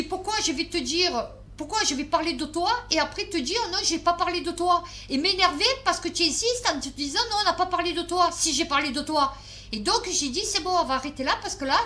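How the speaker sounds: retelling the quarrel with Anne, mildly heated; exasperated. Retold or imitated. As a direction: let the pressure build as you argue. Exasperated retold argument with Anne.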